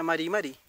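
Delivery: MARI MARI with a quick Spanish tap r; single Spanish r. Shown as a demonstration. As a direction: read MARI MARI as Spanish with one tapped r. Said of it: "si fuera con una R y yo lo leo".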